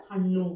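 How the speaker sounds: హన్ను with a firm retroflex ణ; clearly modelled హన్ను with a double ణ. Shown as a demonstration. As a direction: curl the tongue back for the nn in హన్ను. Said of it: "అనా పలకాలి".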